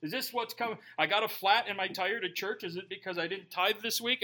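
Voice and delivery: imitating guilty churchgoer. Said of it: "You know".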